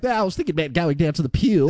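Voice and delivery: mock an inland Australian nan, thick accent; nan's Australian accent. Host teasing co-host by imitating their nan, broad Australian accent. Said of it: "asked your nan what she did today".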